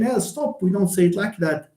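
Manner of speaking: mock objection. Acted native speaker reacting to error.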